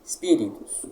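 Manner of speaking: Espíritos opened with a very short i before the s; Espíritos with a fleeting first vowel; brief initial i. Shown as a demonstration. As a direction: barely sound an i before the s in Espíritos. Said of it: "como se houvesse um i antes".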